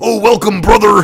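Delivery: loud, very high, belted-out wrestler voice. Playing a mayor character in the voice of Hulk Hogan: Hulk Hogan voice. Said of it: "I do the voice of Hulk Hogan ... that is the voice I do".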